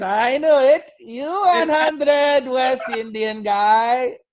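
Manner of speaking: high, loud, slow Indian accent imitating the driver; the driver insisting, in his Indian accent. Uber driver to comedian, in a put-on Indian accent. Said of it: "driver claiming him again".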